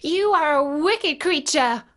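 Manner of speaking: put-on high-pitched girlish accusation; indignant cry. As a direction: cry out in angry protest. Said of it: "cried Dorothy".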